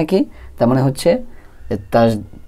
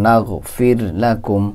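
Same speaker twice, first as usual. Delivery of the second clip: নাগফির লাকুম drawn out slowly; slow recitation; much slower than usual. Shown as a demonstration. Teacher reciting the verse for students, slow. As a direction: hold নাগফির long in reciting tune. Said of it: "আসে হলো হরকতের উচ্চারণ".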